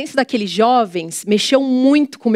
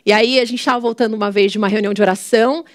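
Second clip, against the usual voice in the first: ordinary talk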